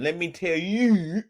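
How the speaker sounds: put-on "Let me tell you" slow in a Baltimore accent. Mimicking the guest's Baltimore accent, slowly. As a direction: lean lightly into a Baltimore accent. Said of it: "he got that Baltimore accent".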